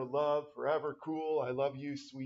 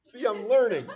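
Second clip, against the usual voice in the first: laughing while saying it, louder; 6 semitones higher, 10 dB louder than usual. Real, not acted. Teacher pleased he decoded slang, laughing. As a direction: chuckle through the words.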